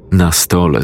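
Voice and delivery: ordinary delivery, nothing marked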